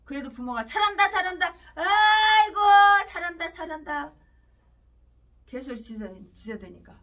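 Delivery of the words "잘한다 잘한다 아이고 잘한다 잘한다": mock praise. Parents mocked praising bully son.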